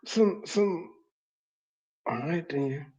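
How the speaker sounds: can't believe she sent the maid; incredulous. Real, not acted. Host watching the guest send the maid for tissues, stunned.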